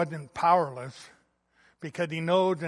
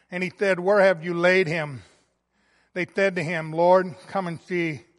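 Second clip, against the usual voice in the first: scripture reading. Acted. Pastor reads the Gospel passage to the church, hushed. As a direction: read the passage gently and reverently.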